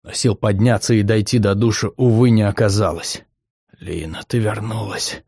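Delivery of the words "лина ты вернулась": soft, murmured into her hair; half-asleep murmur, softer; whispering. Acted. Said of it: "продолжал шептать".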